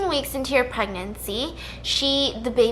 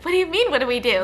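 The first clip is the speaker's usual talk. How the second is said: quick, puzzled retort; mildly incredulous, rushing the question; baffled reply; 3 semitones higher, faster than usual. Retold or imitated. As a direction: question it fast, thrown off. Baffled reply to bawling sister.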